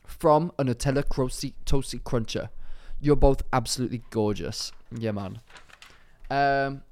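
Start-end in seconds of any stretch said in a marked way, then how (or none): 0.0-5.4 lightly put-on London roadman accent; attempted roadman accent. Reading a listener's letter as requested, in attempted roadman accent. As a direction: read it out in a half-hearted roadman accent. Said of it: "do it in a roadman accent".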